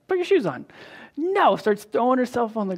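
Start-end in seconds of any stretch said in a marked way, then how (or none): 0.1-0.6 much higher, pleading order; sing-song insistence to a stubborn kid; exasperated high command. Retold or imitated. Dad repeating to his daughter to put her shoes on, higher and pleading. 1.2-1.6 put-on high, louder little-girl refusal; stubborn child. Daughter refusing her dad, high bratty pouting no.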